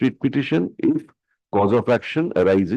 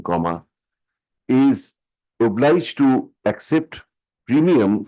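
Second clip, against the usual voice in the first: dictating. Real, not acted. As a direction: dictate each phrase for the stenographer. Dictates the court order.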